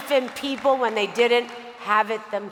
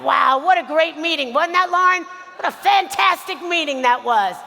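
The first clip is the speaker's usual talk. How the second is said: a touch louder, gushing over the meeting; mock excited gush; 4 semitones higher, 4 dB louder than usual. Mentor gushing to Lauren about the meeting, mock excited. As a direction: play up the mentor's delight. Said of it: "and he'd be like".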